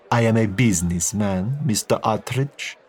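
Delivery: slow, guarded Italian businessman; a smooth mobster sizing him up; Italian crime lord. Acted. Crimene answers evasively.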